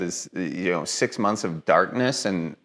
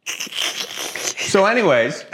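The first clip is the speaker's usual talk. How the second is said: slow, high, stretched "So anyways"; drawn-out awkward pivot; 9 semitones higher, much slower than usual. Real, not acted. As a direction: drag it out to change subject.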